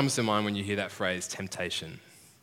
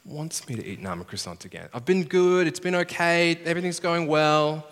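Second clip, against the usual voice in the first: self-justifying dieter; 4 semitones higher, 4 dB louder than usual. Retold or imitated. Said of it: "he says to himself".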